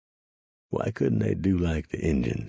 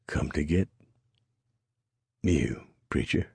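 panting. A narrator's reading. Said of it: "Rusk panted".

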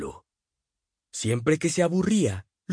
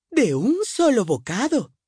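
ominous mother; 11 semitones higher, 4 dB louder than usual. A narrator's reading. Mother assures.

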